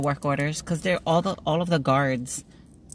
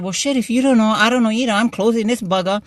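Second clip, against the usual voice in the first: mock exasperation; 6 semitones higher, 4 dB louder than usual. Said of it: "I said".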